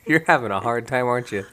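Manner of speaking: talking through a mouthful; words round a bite of food; mouth full. Real, not acted. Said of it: "I have food in my mouth".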